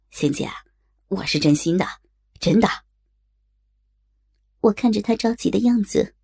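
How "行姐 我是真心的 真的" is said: whispered plea to his friend; earnest whisper. Acted. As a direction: whisper it, meaning every word.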